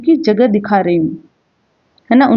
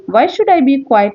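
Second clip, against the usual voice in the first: mildly indignant, higher-pitched retort; 5 semitones higher, much slower than usual. Acted. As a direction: read a touch of indignation, pitch lifted. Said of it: "indignantly and loudly". (हल्की नाराज़गी से, ऊँचे सुर में)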